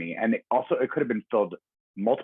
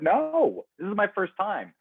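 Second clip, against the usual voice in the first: very high-pitched, squeaky protest; exasperated protest; 13 semitones higher, slower than usual. Retold or imitated. Answering a friend at the Tony luncheon, comically exasperated. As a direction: protest way up high, playing up the retold reply. Retelling own exasperated reply.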